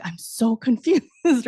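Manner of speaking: confused and giggling; laughing confusion. Retold or imitated. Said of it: "I'm just like".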